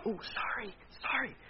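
high, soft little apology; quick apology. Real, not acted. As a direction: back right off and apologize softly. Apologizes for the sudden yell.

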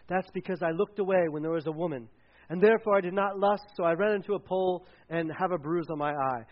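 mock British accent for a pious Pharisee. Pastor voicing Pharisees boasting of bruises, British accent. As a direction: put on a light British accent. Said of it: "why they talk with a British accent".

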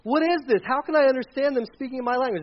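lightly acted amazement; bewildered crowd. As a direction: play the puzzled listener. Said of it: "they were like".

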